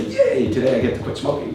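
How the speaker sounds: "Yay" shot way up, then the rest rattled off fast; mock cheer. Speaker mocking a smoker cheering about quitting, fake excited. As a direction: ironic fake enthusiasm, hammed up. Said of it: "uh, say".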